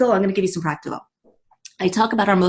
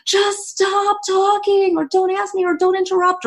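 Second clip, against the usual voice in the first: exasperated inner voice; 11 semitones higher than usual. Retold or imitated. Coach voicing a stressed person's inner thoughts, exasperated and high. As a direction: voice the mind begging to be left alone. Blurting thoughts we all feel.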